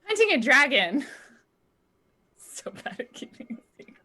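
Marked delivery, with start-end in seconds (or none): 2.6-4.0 whispered aside; whispering. Real, not acted. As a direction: breathe it as a secret. Aside about her own slip.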